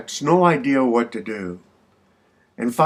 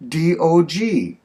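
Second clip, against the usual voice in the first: high-pitched indignant retort, slowing into the letters; 7 semitones higher than usual. Acted. Missus Shapiro proving to the clerk she can spell, indignant. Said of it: "indignantly looks at him and goes".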